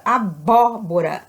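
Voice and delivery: "abóbora" with a strong open bó; "abóbora" stressed on its second syllable; stress on third-last syllable. Shown as a demonstration. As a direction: punch the bó in "abóbora". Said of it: "sílaba tônica cai na antepenúltima".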